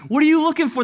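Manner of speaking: high, loud mock challenge; comic exclaimed question. Jesus to the men following him, comic exclaimed question. Comic replay of awkward exchange.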